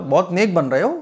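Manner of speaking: high-pitched mocking imitation, lifting at the end; lightly acted sarcastic jibe; sarcastic taunt. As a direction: mimic people scoffing at good advice. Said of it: "तंज के तौर पर".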